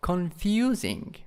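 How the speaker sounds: "Confusing" with FU lifted; stress on second syllable. Shown as a demonstration. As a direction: stress the middle of "Confusing", falling after it. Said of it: "in the second syllable here".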